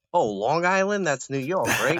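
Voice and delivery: high-pitched, questioning mimicry; put-on high voice of a mistaken stranger; mock clueless outsider. Mimics confused outsiders mishearing Rhode Island.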